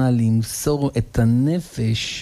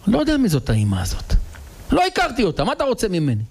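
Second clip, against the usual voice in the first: indifferent son; 10 semitones higher, faster than usual. Acted. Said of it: "הבן אומר לאבא".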